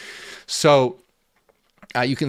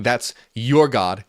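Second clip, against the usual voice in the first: "your" drawn out and louder, "That's your God"; stress on YOUR; 4 dB louder, slower than usual. Retold or imitated. Teacher retelling Jesus's words to disciples, stressing "your". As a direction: lean slowly on "your" to set that god apart.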